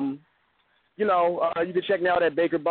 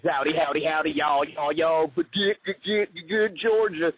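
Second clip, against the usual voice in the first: a playful hint of a Georgia twang; half-hearted Southern accent greeting; mock Southern drawl. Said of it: "I have a deep Southern drawl accent".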